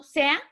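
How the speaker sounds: "sea" said as one run-together syllable; vowels run together. Shown as a demonstration. Teacher to class, showing the wrong joined "sea". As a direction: join the e and a of "sea" into one sound. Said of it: "no se dice junto".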